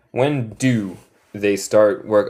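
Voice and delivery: slow and deliberate; careful, spaced-out teaching delivery; slow model question. Shown as a demonstration. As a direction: model the completed question for learners.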